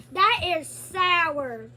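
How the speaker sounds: slow and loud; slow amazed sour reaction. Real, not acted. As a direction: draw it out, shocked by the sourness. Puckering at sour candy.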